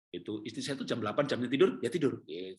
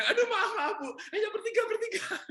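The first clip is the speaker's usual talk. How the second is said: laughing apology. Retold or imitated.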